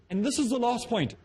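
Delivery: high-pitched mock of rambling speaker. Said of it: "talks I did, were like that".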